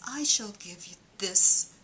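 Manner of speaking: hushed voice of God; God's voice. Pretend. Comedian whispering as God to a believer. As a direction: breathe it like a divine whisper. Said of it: "So if God says".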